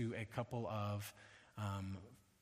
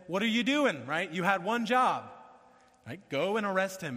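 scolding Pharisees; 5 semitones higher, 6 dB louder than usual. Retold or imitated.

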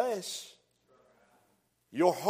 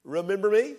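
voice of God; 5 semitones higher than usual. Retold or imitated. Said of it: "and God said".

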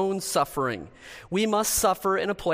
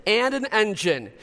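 loud, high fast-talking car salesman; snake oil seller; 4 semitones higher, 3 dB louder than usual. Pretend. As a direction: pitch the car like a huckster. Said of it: "You want me to show you how I can sell cars?".

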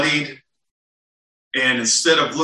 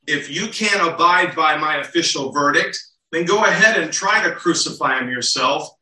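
exasperated Pilate; 2 semitones higher than usual. Retold or imitated. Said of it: "what I think he's saying here".

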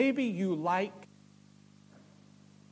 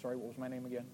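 low, soft, dopey fish voice; a hint of a dim goldfish; forgetful fish; 7 semitones lower, 14 dB quieter, faster than usual. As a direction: play a fish that loses its thought. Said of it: "Fish is like".

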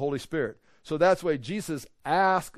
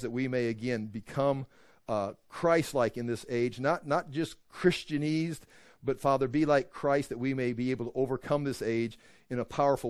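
prayer; 4 semitones lower than usual. Acted. Closing prayer.

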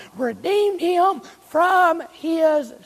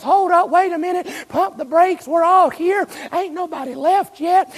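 Paul calling out. Acted. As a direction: halt the jailer before he acts. Paul stops the jailer.

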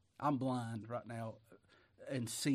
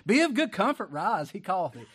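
loud call; 6 semitones higher, 9 dB louder than usual. Acted. Preacher voicing Jesus calling.

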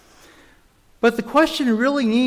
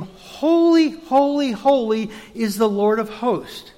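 first holy rung out high and loud, then settling; a loud, soaring heavenly proclamation; seraphs proclaiming; 3 semitones higher, 3 dB louder than usual. Acted. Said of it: "And the seraphs proclaim".

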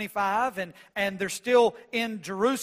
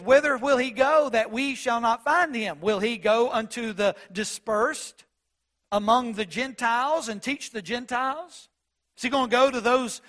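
sarcastic mockery. Pharisees sneering about where Jesus will go, sarcastic. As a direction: scoff at Jesus like a rolling-eyed Pharisee. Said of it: "so, so they're being sarcastic".

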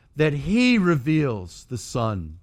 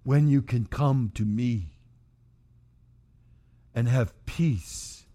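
gentle plea. Acted. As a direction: coax them gently. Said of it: "can you hear him pleading with them".

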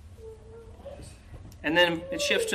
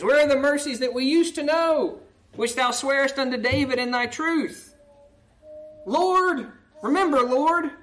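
lamenting plea; 3 semitones higher, 3 dB louder than usual. Acted. Psalm read as lament.

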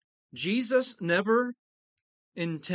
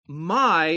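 "my" said alone, louder and weighted; stress on my; 3 dB louder than usual. Shown as a demonstration. Preacher showing the Greek emphasis, "my" stressed. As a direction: hit "my" hard as the key word. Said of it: "is given particular stress".

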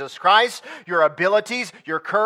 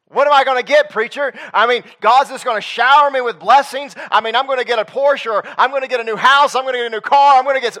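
higher, louder mock of a listener dreaming of riches; greedy listener; 5 semitones higher, 5 dB louder, faster than usual. Preacher mocking a greedy listener in a raised, eager voice. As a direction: ham up the churchgoer expecting a Porsche.

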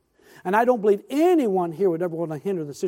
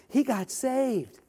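tearful quoted wife; 7 semitones higher, much slower than usual. Retold or imitated. Wife repeats, moved.

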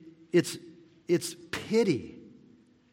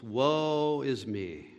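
lamenting woe is me; 4 dB quieter, much slower than usual. Retold or imitated. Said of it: "It's kind of an old term".

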